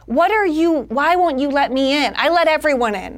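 retold driver's exasperated outburst; exasperated rant. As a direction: demand to know why, worked up. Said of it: "It makes me insane. I'm like".

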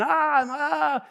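high, drawn-out "ah" of overload; mock noisy clamor. Pastor imitating his own noisy life, mock clamor. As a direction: mimic the noise of a loud life. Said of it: "my life so often is just loud".

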